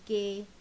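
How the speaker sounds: "cable" pulled apart, CA, long pause, BLE; split into syllables. Shown as a demonstration. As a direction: break "cable" into two slow beats. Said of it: "two syllables again".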